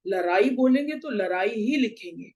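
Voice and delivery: each लड़ाई as "laraai", with plain र; लड़ाई said with r both times; wrong pronunciation. Shown as a demonstration. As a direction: replace ड़ with tapped r in both लड़ाई. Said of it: "उच्चारण गलत कैसे होता है".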